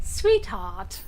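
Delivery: imitating Arlo's Australian drawl on sweetheart; a light Aussie sweetheart, mimicking a game character; Australian accent. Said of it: "this Australian accent".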